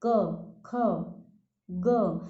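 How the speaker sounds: क, ख, ग sounded separately with their vowel; demonstrating क, ख, ग. Shown as a demonstration. Teacher has pupils hear the अ inside, क, ख, ग pronounced separately. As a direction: say क, ख, ग one at a time, letting the अ sound. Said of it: "जब हम क का उच्चारण करते हैं".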